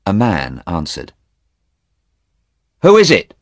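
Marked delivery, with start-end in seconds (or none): 2.8-3.3 high, loud call through a closed door; voiced man calling out. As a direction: call out who's there. Man answers knock, calls out.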